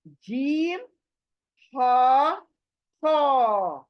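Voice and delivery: जीम, हा, फा said in Arabic, each stretched and stressed; Arabic letter names. Shown as a demonstration. Teacher naming three letters for online students. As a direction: call out जीम, हा, फा one by one. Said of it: "फिर तीन similar letter देखे हमने".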